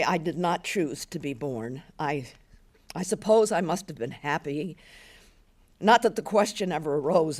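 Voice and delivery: a hint of a weary old woman, reluctant to speak; understated old woman musing to herself; old woman remembering.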